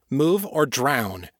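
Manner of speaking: slow, hard ultimatum; clipped order, each word weighed; snapped. Acted. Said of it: "Kate snapped".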